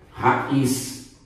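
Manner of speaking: Raiz said as ra... iz; split syllables. Shown as a demonstration. Teacher shows the I before Z, Raiz in two syllables. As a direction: break Raiz into two beats, ra and iz. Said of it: "Porque o I tá seguido por qual letra?".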